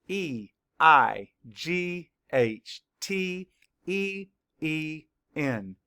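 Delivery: "E I G H T Y" spelled slowly, letter by letter; slow spelling. Shown as a demonstration. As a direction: spell each letter slowly for young learners. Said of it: "Spell it".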